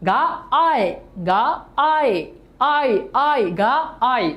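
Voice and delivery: গা and আয় sounded apart, each repeated on its own; syllable breakdown. Shown as a demonstration. Teacher asking students which sound they hear, গা and আয় said separately. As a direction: isolate গা, then আয়, with pauses. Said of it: "কোনটা উচ্চারণ হচ্ছে".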